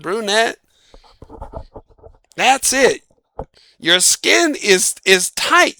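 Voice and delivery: high, thrilled list of gifts; gushing praise. Retold or imitated. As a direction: rave about each gift. Mother Nature praising gifts.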